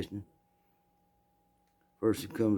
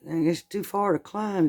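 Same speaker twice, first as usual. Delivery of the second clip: thief's voice; 10 semitones higher, 3 dB louder than usual. Retold or imitated.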